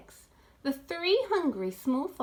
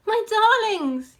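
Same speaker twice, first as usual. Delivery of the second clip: fond address; 9 semitones higher, 9 dB louder than usual. A narrator's reading. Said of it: "he said".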